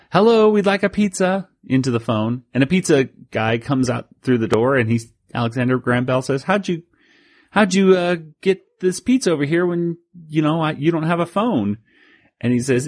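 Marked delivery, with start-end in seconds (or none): 0.1-1.5 mock yell. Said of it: "they yell". 6.4-11.8 put-on much higher, baffled old inventor. Voicing Alexander Graham Bell.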